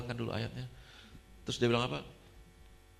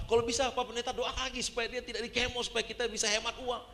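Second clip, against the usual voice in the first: imitated pleading; 9 semitones higher than usual. Voices woman's money-minded plea.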